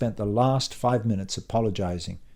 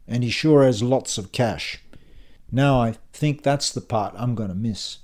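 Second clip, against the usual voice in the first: put-on casual everyday accent after posh act; usual accent. Tsar needles his host about the boss, everyday accent. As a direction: drop the Oxbridge accent for everyday speech. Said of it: "he says in his usual accent".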